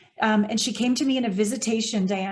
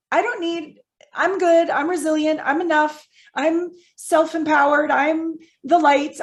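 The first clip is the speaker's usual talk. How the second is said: raised, insistent string of affirmations; mock self-sufficiency; 4 semitones higher than usual. Woman reciting her old self-empowered lines, insistent self-reassurance. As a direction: recite each one emphatically, slowing at the end.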